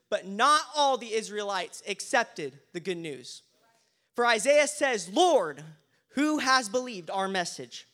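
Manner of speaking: preacher proclaiming scripture in deliberate phrases; scripture reading. Acted. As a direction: read the passage out to a congregation. Reads scripture to congregation.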